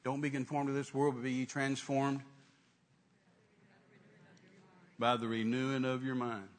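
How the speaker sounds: measured, even recitation from the Bible; retold Bible reading, evenly paced; reading scripture aloud. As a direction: read the verse out deliberately, dwelling on phrases. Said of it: "I read it out loud to the Lord".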